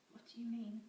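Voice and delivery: panicked whisper; frightened breathy question. Acted. Terrified captive whispering to her captor. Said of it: "She could hear the panic in her voice".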